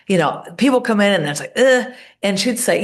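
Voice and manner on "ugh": grouchy ugh. Retold or imitated. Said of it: "kinda grouchy".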